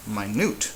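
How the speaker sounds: "minute" as my-NEWT; stress on NUTE. Shown as a demonstration. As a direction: hit the end of "minute". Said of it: "capital letter if louder".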